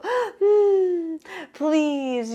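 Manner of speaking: put-on high, bright-eyed little girl hum and please; toddler voice. Grandma imitating toddler Clara asking for a cracker, high toddler voice. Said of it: "And Clara would go".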